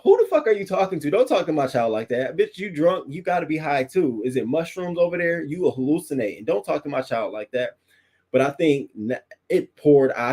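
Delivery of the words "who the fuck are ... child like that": high, fast, indignant tirade at a rude woman; pretend telling-off. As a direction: go off on her for insulting your child. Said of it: "I would have definitely went the fuck off".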